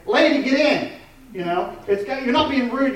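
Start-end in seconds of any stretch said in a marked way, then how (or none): 0.1-0.9 loud, high New York cabbie yell; cab driver shout. Retold or imitated. A New York cab driver yelling at the lady to get in. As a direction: bark it out the cab window. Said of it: "he's like".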